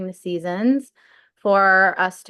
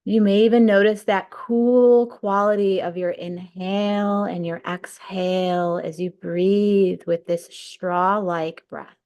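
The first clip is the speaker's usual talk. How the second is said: unhurried breathwork guide, long pauses between cues; guided meditation. Real, not acted. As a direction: lead them through the breath, stretching key words.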